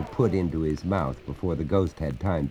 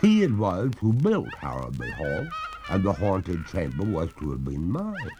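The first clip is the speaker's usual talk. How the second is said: higher, slowing wistful ghost; mournful ghost; 5 semitones higher than usual. Acted. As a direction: sigh over two hundred years. Ghost blames her father.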